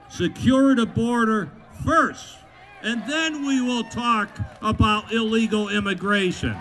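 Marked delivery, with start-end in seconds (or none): 0.1-2.4 slow, loud and mocking, stress on first; mock the opponents' excuse slowly; mocking slogan. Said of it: "then they say first".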